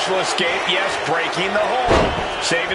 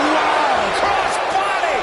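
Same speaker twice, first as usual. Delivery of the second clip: much higher, thrilled outburst; excited exclamation; 10 semitones higher, much slower than usual. Real, not acted. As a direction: yelp it out as the move lands. Sudden high-flying move called.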